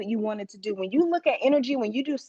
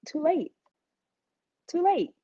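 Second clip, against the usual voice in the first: triumphant; 6 semitones higher than usual. Real, not acted. Triumphant retort, pitch climbing.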